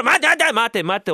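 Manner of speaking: loud, high calling to stop; urgent intervention. Acted. Landlord cutting into the friends' brawl, urgent shout. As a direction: break up a fight with rapid repeated calls.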